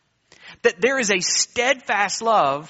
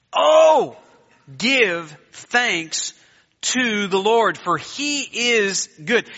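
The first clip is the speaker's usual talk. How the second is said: exclaimed Oh; 2 semitones higher, 5 dB louder, much slower than usual. Acted. Preacher reading the psalm aloud.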